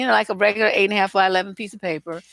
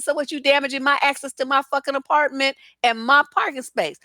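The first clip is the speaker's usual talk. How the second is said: retold cussing out; 5 semitones higher than usual. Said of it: "I was cussing his fucking ass out".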